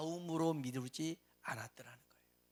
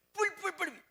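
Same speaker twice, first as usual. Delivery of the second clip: frantic babble; 12 semitones higher, 4 dB louder than usual. Retold or imitated. Acted frantic noise.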